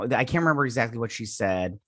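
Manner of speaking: breathy whisper to herself; whispered aside. Real, not acted. Vlogger admitting she forgot the line, whispered aside. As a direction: drop to a whisper, just for yourself. Aside while recapping the show.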